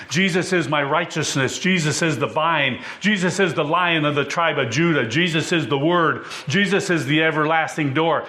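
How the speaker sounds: rolling litany of names, steady build; preaching. Acted. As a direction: preach the names of Jesus one after another. Preacher's long list of names.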